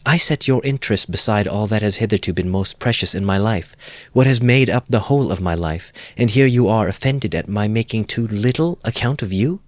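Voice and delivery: a hurt, rising protest; indignant outcry. Acted. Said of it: "cried Dunya, flushing".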